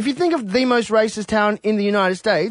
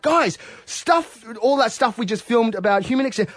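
higher, eager retelling to the crew; excited; 4 semitones higher than usual. Retold or imitated. Telling his film crew about the rally, excited and higher. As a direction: rush it like big news.

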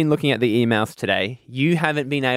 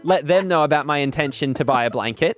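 mock formal letter to council; 2 semitones higher than usual. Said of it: "You write to the council and you say".

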